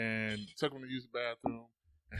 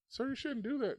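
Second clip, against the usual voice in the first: disapproving lady; 12 semitones higher than usual. Retold or imitated.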